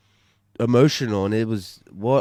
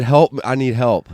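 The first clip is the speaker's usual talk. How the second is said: a louder, urgent cry for help; retold panicked cry; 2 semitones higher, 6 dB louder than usual. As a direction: shout it out like you're in trouble. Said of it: "I said".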